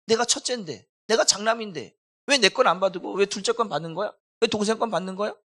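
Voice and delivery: mildly voiced sulky complaint; aggrieved complaint. Preacher voicing Cain's complaint over the rejected offering, aggrieved.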